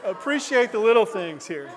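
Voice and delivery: real amused laughter in the voice; laughing. Real, not acted. Amused after granddad story.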